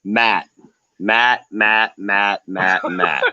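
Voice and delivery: the name repeated in even beats, sinking in pitch; mock disappointed chiding. Caller scolds Matt before rebutting him, mock disappointed chiding. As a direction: chide him like a let-down teacher.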